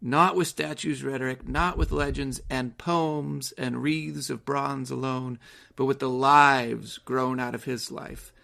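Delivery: slow, measured reading of verse; reading the poem aloud with weight. Acted. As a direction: let each line land slowly. Reads poem lines aloud.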